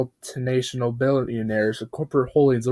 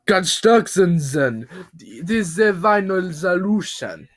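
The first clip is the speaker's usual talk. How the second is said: slow, very high, loud rant; unhinged scream; 6 semitones higher, 4 dB louder, slower than usual. Acted. Bob rants like a lunatic, screaming slow and high. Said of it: "he screamed".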